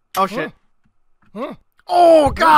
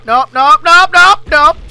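panicked nopes; 7 dB louder than usual. Real, not acted. Gamer panics at a hazard.

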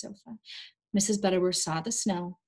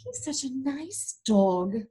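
moaned; 4 semitones higher, slower than usual. Acted. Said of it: "Miss Atkins moaned".

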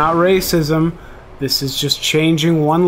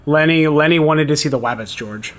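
Lenny voice. Retold or imitated. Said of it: "That's Lenny".

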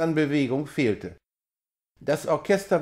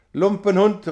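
a much higher, louder insult flung out; furious shout; 5 semitones higher, 7 dB louder than usual. A narrator's reading. Friedrich cursing his disgraced servant, furious shout. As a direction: spit the insult at him. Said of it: "rief er".

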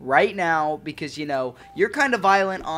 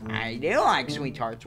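Sanic; 7 semitones lower, 5 dB quieter, slower than usual. Acted. Sanic answers the host.

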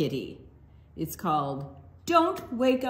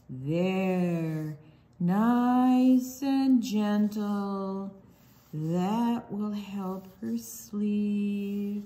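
soothing; much slower than usual. Pretend. Soothing sleeping tiger.

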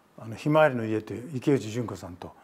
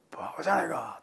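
hushed retold scolding; 3 semitones higher, 5 dB quieter than usual.

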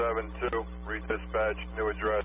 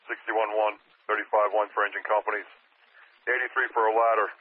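urgent firefighter radio. Real, not acted. Fire dispatch radio call.

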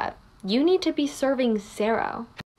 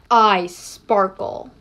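slow, airy Aoyama voice; drawn-out dreamy Aoyama voice; 4 semitones lower, much slower than usual. Acted. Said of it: "Aoyama impersonating Kirishima".

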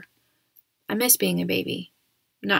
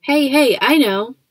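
loud, higher burst of excitement; excited; 6 semitones higher, 9 dB louder than usual. A narrator's reading. Dad interrupting with a matchmaking idea, excited. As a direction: jump in with a brand-new idea, loud and eager. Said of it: "said Dad excitedly".

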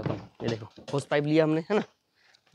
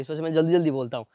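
fast talk; faster than usual. Real, not acted. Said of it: "क्योंकि मैं fast fast बोलता हूँ".

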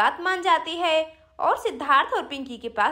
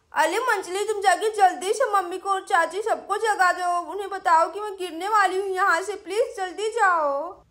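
put-on lightly lisped child voice; pleading little girl; 3 semitones higher than usual. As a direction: beg like a small child in trouble. Sweety pleads with the cow. (तुतलाती बच्ची की मिन्नत)

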